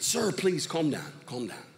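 acted patient reassurance, falling to a hush; calming. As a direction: settle down an angry man. Jesus soothes the angry man.

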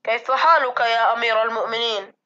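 breathy, sorrowful loud whisper; a servant grieving for his dying master; open sorrow. A narrator's reading. Servant asks his dying master, whispered sorrow. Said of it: "يقول غصين في أسى ظاهر".

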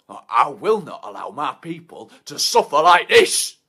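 loud rallying cry; defiant roar. Acted. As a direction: rise up like a leader defending his people. Defiant outburst for his people.

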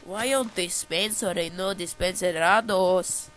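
badly faked Spanish accent, drawn-out words; mock Spanish accent with rolling nonsense endings; terrible Spanish accent. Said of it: "my terrible Spanish accent".

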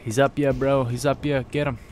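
loud callout to team; calling out. Real, not acted. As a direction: shout the enemy spot. Calling out enemy position.

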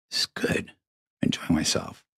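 whispered and low to himself; whispered aside. Real, not acted. Host tells listeners he's enjoying himself, whispered aside. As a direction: breathe it out as a private aside.

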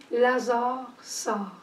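commanding call. Retold or imitated. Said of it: "Avec son autorité de sauveur".

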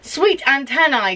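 lightly voiced cheerful ghost; smiling ghost. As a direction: say it with a smile. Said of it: "smiles the ghost".

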